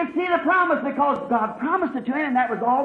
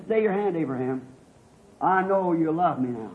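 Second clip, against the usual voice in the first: tender divine command; 7 semitones lower than usual. Acted. Voices God halting Abraham, low, soft.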